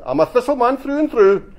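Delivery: high, loud, emphatic avowal; loud declaration. Acted. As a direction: proclaim team loyalty at full voice. Harry loudly declares his neutral team.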